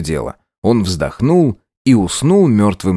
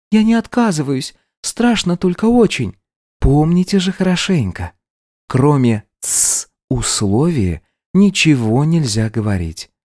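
put-on much higher, frightened girl agreeing; a scared maid steeling herself; nervous maid; 5 semitones higher than usual. Maid and Antonina, higher voices.

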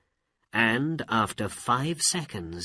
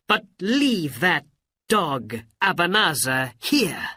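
commanding Aladdin; 10 semitones higher, 6 dB louder than usual. Acted.

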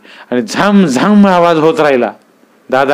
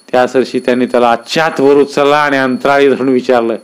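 ordinary delivery

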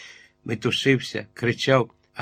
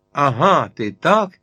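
crowd yelling; 3 semitones higher, 5 dB louder, slower than usual. A narrator's reading. Tavern crowd turns on the giant, yelling. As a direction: bellow it like an angry mob. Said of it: "загорлали звідусіль".

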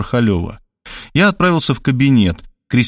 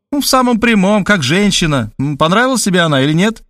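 The speaker's voice; 7 semitones higher than usual. A narrator's reading.

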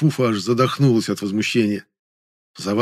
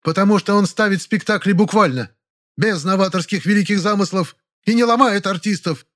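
sarcastic actress; 10 semitones higher than usual. Acted. Actress continues mocking director.

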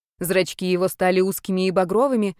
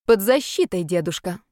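bold. Acted. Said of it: "смело сказала подросток".

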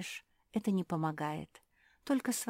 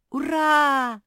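loud, much higher cheer; joyful shout; 9 semitones higher, 10 dB louder than usual. Acted. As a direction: yell it out in triumph. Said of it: "закричала Зефирка". (радостный громкий крик)

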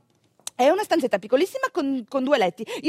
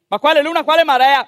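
scoffing; 6 dB louder than usual. Retold or imitated. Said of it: "mi fa l'ostetrica".

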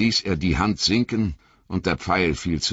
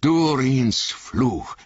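higher, slow horrified cry; dwarf crying out at the sight of the Balrog; Gimli crying out; 6 semitones higher, much slower than usual. Acted. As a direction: gasp out the curse. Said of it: "rief er".

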